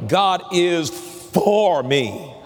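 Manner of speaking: God is for me drawn out slow, for stressed; slowly, weight on for. Shown as a demonstration. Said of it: "let's put emphasis on each of those words".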